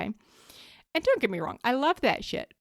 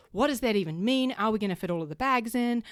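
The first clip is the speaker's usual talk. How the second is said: rising panic, building to a louder gasp; worked up; 2 semitones higher, 3 dB louder than usual. Retold or imitated. Mother packing for a family trip, flustered and getting louder. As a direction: spiral into a fluster over the packing. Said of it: "I was getting really worked up".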